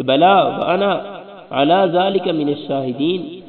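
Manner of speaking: slow, measured recitation; solemn Arabic response; recited response. Shown as a demonstration. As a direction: intone the reply like a prayer. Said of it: "یہ کہنا مستحب ہے".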